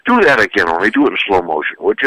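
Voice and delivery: mock sweet praise. Parent mocks eye-rolling kid.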